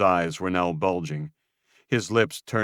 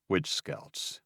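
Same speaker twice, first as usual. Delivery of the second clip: demanded; 7 dB quieter than usual. Acted. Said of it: "Luke demanded".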